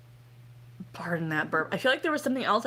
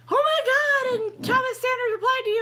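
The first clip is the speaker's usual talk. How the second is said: very high, loud mock squeal; hammed-up fangirl excitement; imitated starstruck fans; 5 dB louder than usual. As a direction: squeal like your friend got a celebrity reply. Acts out mutuals gushing on Twitter.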